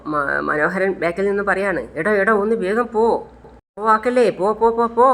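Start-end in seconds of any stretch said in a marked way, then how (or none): 2.0-5.1 frantic urging. Acted. Urging the speeding auto driver.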